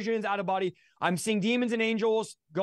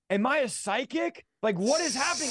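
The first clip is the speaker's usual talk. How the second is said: higher-pitched, baffled questioning; retold bewilderment; 5 semitones higher than usual. Retelling his confusion over hearing people's thoughts, bewildered. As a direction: replay your baffled questions to yourself. Acts out own past bewilderment.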